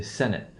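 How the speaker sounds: Senate as SEN-it; stress on first syllable. Shown as a demonstration. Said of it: "the one O stress pattern".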